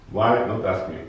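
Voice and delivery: normal talking voice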